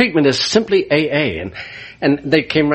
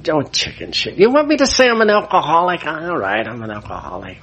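scornful, fast, then fading to a grudging mutter; contemptuous; 2 semitones higher than usual. Retold or imitated. The drunk priest sneering at the counselor, contemptuous. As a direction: brush off the question with scorn. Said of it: "I was kinda contemptuous".

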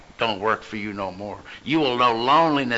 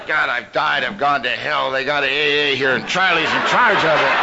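mock dismay; 2 semitones higher, 4 dB louder than usual. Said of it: "And I go".

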